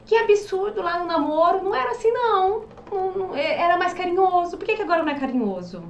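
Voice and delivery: wounded whine of a partner who wants gentleness; hurt complaint. Retold or imitated. Sensitive partner hurt by blunt spouse, mild mock-wounded whine. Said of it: "fala, e o outro".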